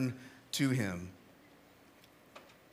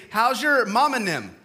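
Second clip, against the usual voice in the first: Georgia phrase; 4 semitones higher, 4 dB louder than usual. Retold or imitated. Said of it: "someone might say".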